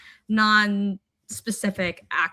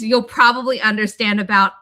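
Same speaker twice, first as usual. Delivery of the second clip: laughing quote; 8 dB louder than usual. Retold or imitated. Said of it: "the next line is".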